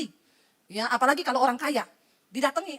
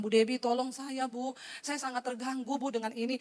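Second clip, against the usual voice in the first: slow, soft retold plea; pleading for help; 3 semitones lower, 5 dB quieter than usual. Troubled doctor phones the preacher for help, pleading. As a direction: imitate a troubled caller, drawn-out and subdued.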